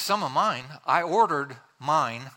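possessive husband, slowing to a crawl; indignant inner thought. Acted. Husband silently objecting to sharing his food, indignant. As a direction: stress "mine" slowly, affronted. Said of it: "what the man is thinking".

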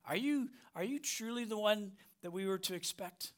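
John's plea rises high and thin; John the Baptist in prison, doubting; doubting prisoner. Retold or imitated. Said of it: "ask him the question".

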